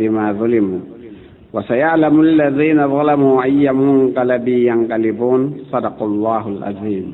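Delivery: brisk, measured Arabic recitation; Quran recitation. Acted. Speaker opens a talk on poets with verses, reciting briskly. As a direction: recite the verses in a quick, even flow.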